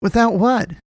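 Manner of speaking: high-pitched, forceful question; insistent. A narrator's reading. Boy demanding the man finish, insistent.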